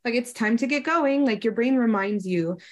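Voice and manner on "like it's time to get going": a hint of a courteous butler; gently prompting like a servant; polite butler. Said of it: "like, a kind butler where it's like".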